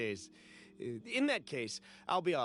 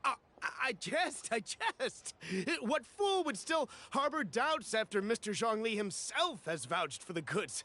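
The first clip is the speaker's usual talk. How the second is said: flustered backpedal; 6 semitones higher than usual. Acted. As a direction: scramble to stop her leaving. Buyer panics as seller leaves.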